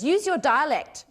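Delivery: imitating a director cutting in loudly; director's sudden instruction. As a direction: call it out as an urgent direction. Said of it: "Jane suddenly goes".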